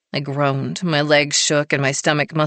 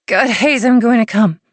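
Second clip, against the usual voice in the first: higher and louder, urgent; breathless cry; 6 semitones higher, 6 dB louder than usual. A narrator's reading. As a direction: cry out on the edge. Heroine near climax.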